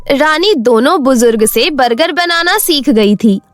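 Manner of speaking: plain reading voice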